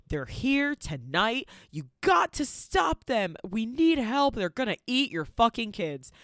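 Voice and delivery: high, loud frantic warning, slowing down; panicked yelling. Retold or imitated. Max warning the party parents, frantic shout. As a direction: shout the alarm at the crowd. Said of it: "he's like".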